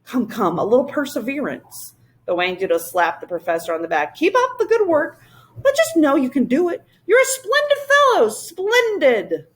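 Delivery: high, booming encouragement; high jolly royal creature voice; hearty creature. Acted. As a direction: cheer him on like a jolly king. Whangdoodle voice.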